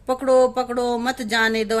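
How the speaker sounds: lightly acted parrot calling out, loud at first; parrot's cry. Teacher quotes the parrot from the story, lightly acted cry. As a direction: imitate the parrot's alarm call. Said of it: "वहां पे तोता क्या कह रहा था".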